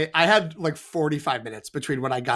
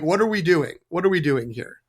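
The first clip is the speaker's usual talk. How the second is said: mock wary admin. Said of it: "of her being like".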